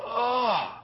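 high drawn-out "oh"; acted sigh of shock; overwhelmed groan. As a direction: let out a high, dismayed moan. Acts out his reaction to crisis.

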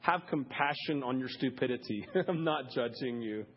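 a hint of a gentle, amused God; God's gentle voice. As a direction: answer like an amused loving father. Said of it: "and God says".

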